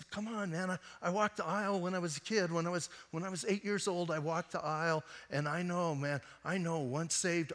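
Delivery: mock defensive protest; imitated protest. Friend protesting that he is saved.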